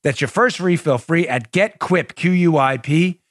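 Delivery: brisk, upbeat sponsor read; friendly host-read commercial. Acted. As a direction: sell it like a podcast ad.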